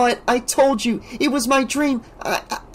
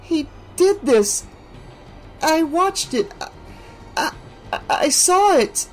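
shaken rambling. A narrator's reading. Alice in shock after the death, rambling high. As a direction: keep repeating it in shock. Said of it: "rambled on and on".

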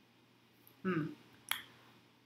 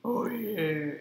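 whispering; 6 dB louder than usual. Real, not acted. Whispered reaction.

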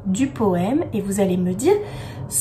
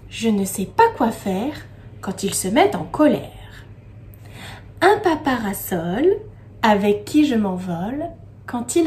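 poem recitation; 2 semitones lower than usual. Acted. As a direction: recite line by line with lingering pauses. Recites the poem again for repetition.

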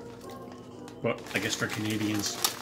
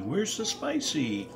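higher, slow and puzzled; slow insistent question; 5 semitones higher, much slower than usual. Real, not acted. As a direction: draw it out, really asking. Repeats question, second drawn out.

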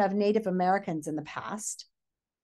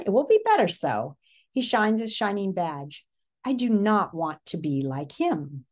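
story read-aloud. A narrator's reading. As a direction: read the departure steadily.

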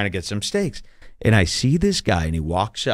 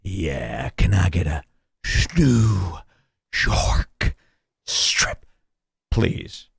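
bored cowboy voice; 4 semitones lower, much slower than usual. Retold or imitated. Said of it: "and he goes".

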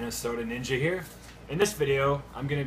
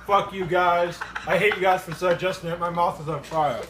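angry yell; 6 semitones higher, 7 dB louder than usual. Real, not acted. Mouth burning, yelling at viewers.

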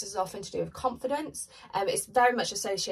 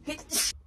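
embarrassed laugh; 9 semitones higher, 3 dB quieter than usual. Real, not acted. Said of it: "Sorry, that was gross".

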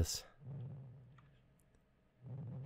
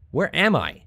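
surprised; 14 semitones higher, 4 dB louder than usual. Real, not acted. Waking up confused in game.

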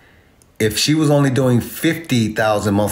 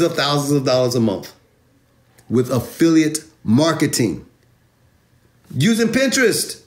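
excited; 5 semitones higher than usual. Real, not acted. Excited rant, much higher.

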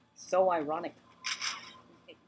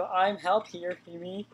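voice crack; much slower than usual. Real, not acted. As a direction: voice cracking mid-line. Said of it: "did you guys hear that voice crack".

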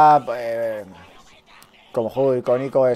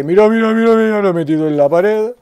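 loud, high, amazed exclaiming; excited shout; 6 semitones higher, 6 dB louder than usual. Real, not acted. Player showing viewers the enemy in the wall, excited shout.

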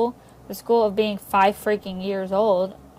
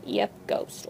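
whispering; 6 dB quieter than usual. Real, not acted. Whispered aside about ghost.

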